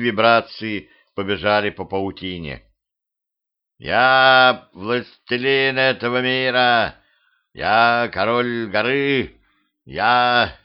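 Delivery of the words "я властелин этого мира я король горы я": slow grandiose villain boast; mustache twirling villain. Acted. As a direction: proclaim your reign slowly. Spider proclaims itself ruler.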